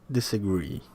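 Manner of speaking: "Disagree" stressed on the final syllable, disa-GREE; stress on last syllable. Shown as a demonstration. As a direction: put the weight on GREE in "Disagree". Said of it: "the stress syllable is bolded".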